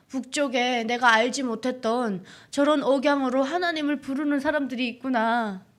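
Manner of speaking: normal talking voice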